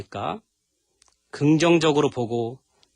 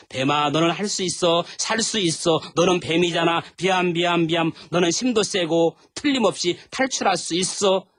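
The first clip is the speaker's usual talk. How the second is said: cheering on; 4 semitones higher than usual. Acted. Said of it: "응원한다고".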